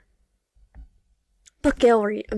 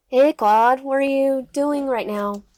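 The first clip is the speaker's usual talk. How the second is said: slightly higher, drawn-out phone greeting; lightly voiced twin sister; 3 semitones higher, 3 dB louder, slower than usual. Twin sister phoning her disliked sibling, lightly voiced drawn-out greeting. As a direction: stretch it out as the sister calling.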